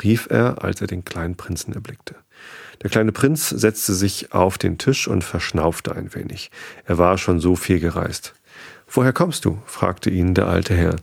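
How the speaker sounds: calm, unhurried storybook narration; bedtime story reading. A narrator's reading. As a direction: read gently so listeners drift off. Reads bedtime story to sleep.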